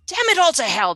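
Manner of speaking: loud heartfelt bellow. A narrator's reading. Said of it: "a full-on heartfelt bellow".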